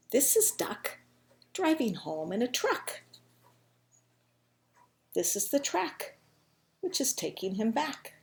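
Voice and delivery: put-on slow, measured reading to children; picture-book storytelling. A narrator's reading. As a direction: spell out the rhyme for small listeners, unhurried.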